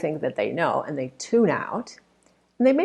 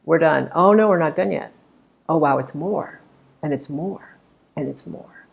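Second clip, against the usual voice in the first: mock audience surprise. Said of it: "it created this sense of".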